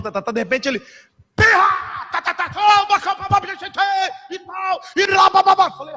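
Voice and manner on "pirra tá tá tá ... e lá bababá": high, shouted babbling burst; mock a prophet erupting in frantic shouted syllables; sudden prophetic outburst. Preacher imitates prophet bursting out at the lunch table, explosive mock shout.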